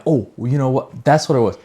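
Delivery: suddenly excited at a memory; light burst of excitement as it comes back; real excitement. Real, not acted. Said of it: "I'm sorry, I'm getting excited".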